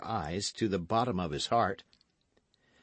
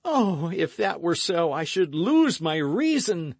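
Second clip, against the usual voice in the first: rapturous exclamation; 9 semitones higher, 6 dB louder than usual. Acted. Lover's rapture, high and loud.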